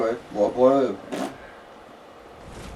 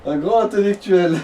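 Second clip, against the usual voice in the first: slow mock praise; 3 semitones higher, slower than usual. Repeating his own mocking line.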